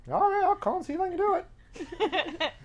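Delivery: high, slow, put-upon agreement; reluctant giving in. Retold or imitated. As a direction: give in with a drawn-out mock whine. Kent gives in to the customer.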